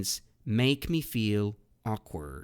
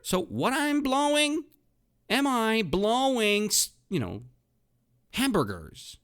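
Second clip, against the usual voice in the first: high, playful mock question to the class; mock puzzled question; 13 semitones higher, 5 dB louder than usual. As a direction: act puzzled, voice lifted high.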